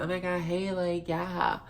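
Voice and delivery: high, mincing mock of a prissy guy. Mocking the stalker as a prissy greeter, high mincing voice. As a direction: chirp it up high like a fussy, prissy dude. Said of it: "He's prissy as fuck".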